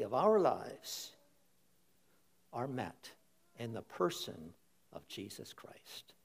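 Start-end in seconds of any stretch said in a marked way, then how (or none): 2.5-6.1 hushed, breathy-free whisper of awe. Real, not acted. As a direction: drop it to a near whisper, full of wonder. Preacher drops to a hushed whisper.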